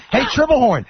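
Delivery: imitated heckler, high drawn-out yell; Artie. Fan heckles the coach for minutes, imitated high yell. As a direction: stretch the taunt out over the crowd. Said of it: "Artie's voice cuts through the whole crowd".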